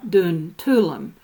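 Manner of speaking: "Tulum" in two syllables, a vowel between L and M; hidden vowel sounded. Shown as a demonstration. Lecturer showing the castle's correct name, hidden vowel in "Tulum". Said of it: "as if there were a U between the L and".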